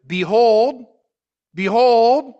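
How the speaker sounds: BEHOLD drawn out loud on the second syllable; ringing, stretched BEHOLD; emphatic. Retold or imitated. Stressing the emphatic prefaces of verses.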